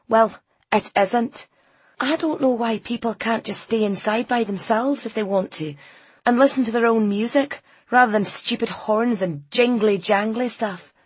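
put-on disdainful young character voice; sulky girl. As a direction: grumble like a teenager who hates festivities. Voices sulky girl Ainsley arguing.

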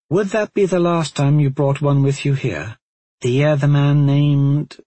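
lightly voiced probing woman; curious Cote voice. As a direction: ask searchingly, trailing off. Cote questions Talmadge.

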